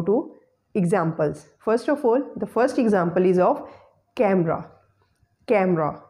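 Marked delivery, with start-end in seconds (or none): 4.1-4.7 "camera" with the middle vowel dropped; schwa-less pronunciation. Shown as a demonstration. Teacher modelling the first example, "camera" in two syllables. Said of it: "we will pronounce it as camera". 5.5-6.0 "camera" with the middle vowel dropped; schwa-less pronunciation. Shown as a demonstration. Teacher modelling the first example, "camera" in two syllables. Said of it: "we will pronounce it as camera".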